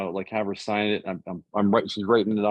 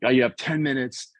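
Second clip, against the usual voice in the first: fast, higher-pitched mock shouting; mock yell; 4 semitones higher than usual. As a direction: rattle it off like a pushy broker yelling. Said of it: "he was screaming at me".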